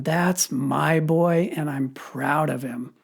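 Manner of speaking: slow, heartfelt fatherly pride; emotional dad claiming his son; proud father. Retold or imitated. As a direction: let each word land, softening at the end. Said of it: "that's how I hear it".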